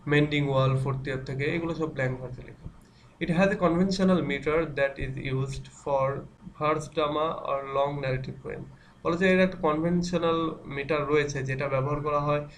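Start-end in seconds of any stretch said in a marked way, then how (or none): 3.2-8.6 slow, even reading of a definition, word by word; slow dictation reading. Acted. Teacher dictating a definition to students, slowly. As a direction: read it out slowly so students can write it down.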